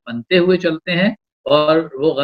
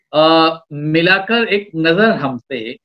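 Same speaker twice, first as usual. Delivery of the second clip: romantic shayari. Acted. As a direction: draw out each line of the couplet. Poet recites a love couplet.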